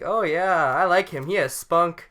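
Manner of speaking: mock Ron Burgundy voice; Ron Burgundy quote. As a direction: boom it out like a newsman praising a kid. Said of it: "he's like".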